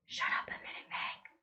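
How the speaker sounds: urgent whisper. A narrator's reading. Calvin whispering urgently to Meg. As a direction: whisper it into her ear. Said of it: "Calvin whispered to her".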